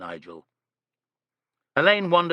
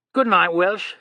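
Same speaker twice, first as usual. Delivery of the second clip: kind, smiling goodbye; a touch of a smile in the voice; 6 semitones higher, 6 dB louder, slower than usual. A narrator's reading. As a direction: send the maid off with a smile. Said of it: "said Alleyne, smiling".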